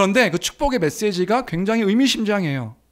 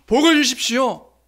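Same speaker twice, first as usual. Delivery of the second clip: raised, louder call of blessing; 4 semitones higher, 4 dB louder than usual. Acted. Priest calls blessing over Abraham, raised cry. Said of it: "외치는 거예요".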